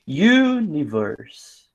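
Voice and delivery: very slow "Universe", long first syllable U-ni-verse; drawn-out syllables. Shown as a demonstration. Teacher counting three syllables, "Universe" very slowly drawn out. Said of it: "Um, dois, três".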